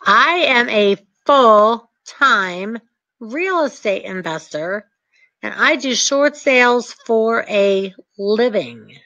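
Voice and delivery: slow, self-assured and steady; confident. Shown as a demonstration. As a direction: state it like a seasoned pro. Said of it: "So you say it like I say it".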